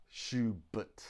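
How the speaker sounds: Schubert with a weak uh in the last syllable; schwa in Schubert. Shown as a demonstration. Teacher showing the class the schwa in Schubert. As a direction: swallow the second vowel of Schubert. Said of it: "This is what we call a schwa".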